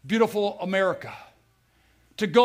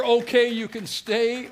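sweetest words; 5 semitones higher, slower than usual. Retold or imitated. Preacher savoring God's release to the congregation, slow and joyful. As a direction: stretch each word out like sweet relief. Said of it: "was the sweetest words".

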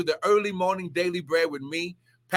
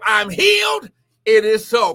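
fervent shout; 2 semitones higher, 7 dB louder than usual. Real, not acted. Preacher telling viewers what to type, fervent shout. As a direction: shout it out for everyone to claim.

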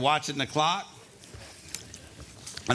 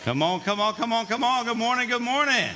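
hype-up shout; 8 semitones higher than usual. Real, not acted. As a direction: fire up the crowd, shouting. Pastor hyping up the congregation.

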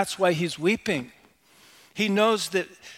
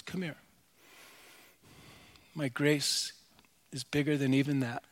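tender divine reply; 2 semitones lower, 5 dB quieter than usual. Acted. God tenderly answers in story.

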